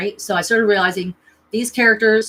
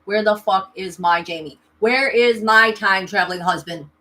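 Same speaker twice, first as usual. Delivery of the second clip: firm, emphatic mock demand; acting out an insistent demand; retold demand to the universe; 4 dB louder than usual. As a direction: call the universe to account. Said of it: "I said to the universe".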